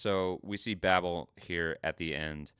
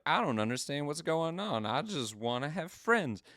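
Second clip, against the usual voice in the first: high, plaintive confused voice; lightly voiced lost artificial angel; sad Barakiel; 9 semitones higher than usual. Barakiel pleading to be understood, high plaintive voice. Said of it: "And he's like".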